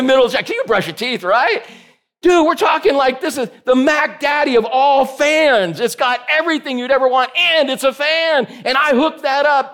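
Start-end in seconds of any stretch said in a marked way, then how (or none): 2.2-7.8 excited. Real, not acted. Hyping the fancy shower fan.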